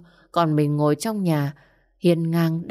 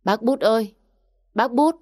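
higher-pitched call over the rain; calling out loud; 6 semitones higher than usual. A narrator's reading. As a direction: call out to the uncle from outside the house. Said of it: "chỉ dám đứng bên ngoài gọi thật to". (gọi to thất thanh)

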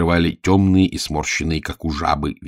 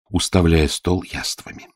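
ordinary delivery, nothing marked

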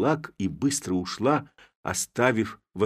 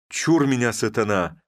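loud warding off; 4 semitones higher, 6 dB louder than usual. Acted. Clerk wards off the devil.

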